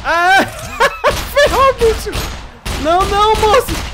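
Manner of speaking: high, loud startled screams; real panic, yell out high; panicked yelling. Real, not acted. Spotted by enemy, panicking.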